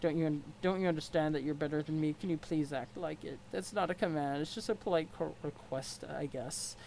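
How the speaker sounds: stiff, formal troll sneering at his rival; a lightly voiced haughty troll. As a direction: look down your nose at him. Equius troll voice.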